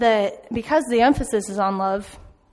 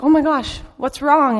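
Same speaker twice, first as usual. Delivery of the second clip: higher and louder, alarmed; surprised concern; 4 semitones higher, 4 dB louder than usual. Retold or imitated. Girl seeing the crying worker, alarmed and concerned. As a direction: rush to ask what's wrong. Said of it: "And she's like".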